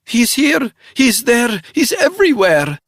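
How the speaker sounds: very high, loud singsong mockery; deranged spy laughing in his face; manic laughing taunt. A narrator's reading. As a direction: sing it like a madwoman. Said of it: "The woman laughed".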